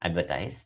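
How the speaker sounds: advertise said slowly with a long "tize" ending; careful pronunciation. Shown as a demonstration. Teacher shows students how to say the verb, careful and clear. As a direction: spell out advertise as AD-ver-tize. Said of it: "it is pronounced as".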